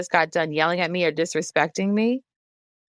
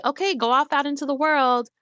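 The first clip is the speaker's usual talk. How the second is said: mock cheerful send-off; 6 semitones higher than usual. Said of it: "and then say".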